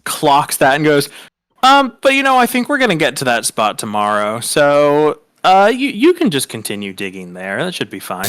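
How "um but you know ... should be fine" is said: tactful professor. Acted. Professor letting an uneasy student off, tactful. Professor clocks it, lets her off.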